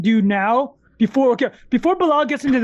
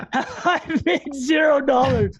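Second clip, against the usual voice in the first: laughing shout; 2 semitones higher, slower than usual. Real, not acted. Laughing at own losses.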